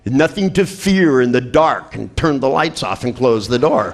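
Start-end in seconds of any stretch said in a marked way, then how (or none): 0.0-2.0 higher and slow, falsely calming; mock-soothing dad. Dad leaving daughter in the dark, slow mock reassurance. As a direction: soothe with a wink of menace. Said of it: "He said".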